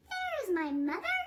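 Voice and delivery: a chick calling happily to its mom; baby bird, lightly voiced. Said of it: "he said".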